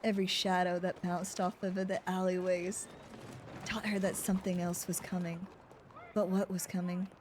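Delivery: noir narration. Acted. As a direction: read it like a film noir opener. Narrates noir detective story.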